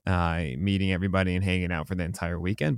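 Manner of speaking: a bit hoarse, worn-out voice. Real, not acted. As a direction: talk through a voice that's mostly gone. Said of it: "I kind of lost my voice".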